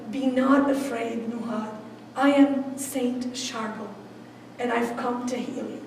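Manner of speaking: slow, soft reassuring saint; a monk calming a frightened woman, slow and soft; calm reassurance. Retold or imitated. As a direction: soothe her gently and slowly.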